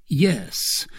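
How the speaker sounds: understated sorrowful reply; sadder yes. A narrator's reading. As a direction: say it with restrained sadness. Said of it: "each with a sadder intonation".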